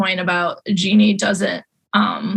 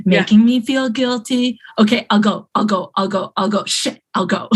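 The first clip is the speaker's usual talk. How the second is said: voicing Cameron. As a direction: drag it out like a reluctant, guilty friend. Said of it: "Cameron thinking about whether".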